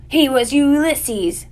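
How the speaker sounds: slow, high, stirring proclamation; rousing declaration. A narrator's reading. Squirrel rallying himself against the shovel, rousing declaration. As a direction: draw out a proud, rising battle declaration.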